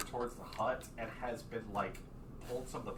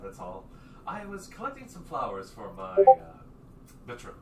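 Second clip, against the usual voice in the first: flustered dandy voice; 5 dB louder than usual. Acted. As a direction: play a caught, fussy gentleman. GM voices flustered caught NPC.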